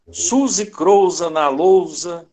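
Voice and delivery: slow, measured verse; poem recitation. Shown as a demonstration. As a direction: recite it slowly, stretching the words. Recites his own poem from memory. (recitando um poema, devagar)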